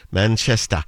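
local Manchester pronunciation; Mancunian accent. Shown as a demonstration. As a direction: say Manchester like a Mancunian, open final vowel. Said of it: "the Mancunian accent from Manchester".

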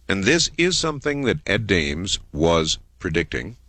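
deliberate, emphatic reporting; earnest, weighty announcement; serious. Real, not acted. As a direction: lay it out gravely in measured phrases. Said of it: "as he gets serious again for a moment".

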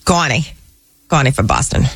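lightly put-on Boston accent. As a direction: say it with a touch of Boston. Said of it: "I could do my Boston accent".

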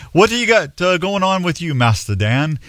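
lightly put-on English valet accent; valet's question in a mock English accent; a hint of English accent. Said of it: "on that English accent".

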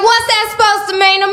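high and loud, mocking a bully; tough girl sneer. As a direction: throw the challenge back at her. Ugly girl confronting her.

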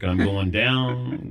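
slow, drawn-out mock sinking; woozy collapse. Recounting his faint to the crew, woozy and sinking. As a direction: stretch it out as if keeling over.

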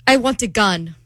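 lightly put-on Italian accent; imitated Italian accent. Woman retelling her date's odd request, mock Italian accent. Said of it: "he looks at me and he goes".

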